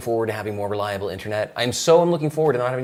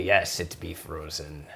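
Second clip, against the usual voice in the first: put-on pirate accent.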